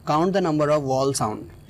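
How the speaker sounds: very slow, word by word, x0.4; slow dictation. Shown as a demonstration. Teacher to students, dictating the rule slowly. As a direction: spell out the rule slowly for the class.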